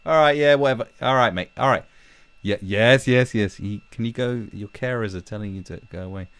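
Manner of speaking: mock impatient dismissal. Brushing off a rambling stranger, mock impatient dismissal. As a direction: cut off a rambler, exaggerated impatience.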